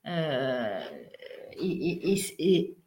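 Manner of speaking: coughing, needs water; throat catching. Real, not acted. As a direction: talk through a tickly throat. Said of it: "je bois un verre d'eau".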